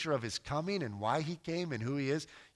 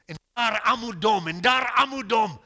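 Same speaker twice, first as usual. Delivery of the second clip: mock anger; 8 semitones higher, 12 dB louder than usual. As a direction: play-act outrage at the phrase. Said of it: "then I get real angry".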